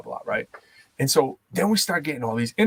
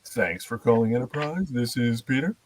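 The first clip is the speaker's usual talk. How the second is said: softer, put-on phone greeting with rising ends; customer service voice; 3 semitones lower, 6 dB quieter than usual. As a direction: imitate a polished call center agent. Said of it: "when I started working for Enterprise, it was hilarious".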